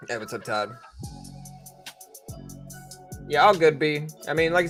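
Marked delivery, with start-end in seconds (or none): none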